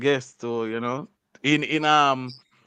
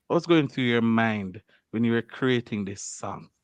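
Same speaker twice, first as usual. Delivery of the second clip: interview voice. Pretend. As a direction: ask it like a serious interviewer. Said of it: "let me get into my interview voice now".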